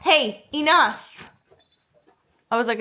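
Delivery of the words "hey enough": slow, drawn-out stern hey; a stern dog-owner's enough; mock stern scold. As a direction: draw out a firm warning to the dogs. Scolding dogs mid-quote.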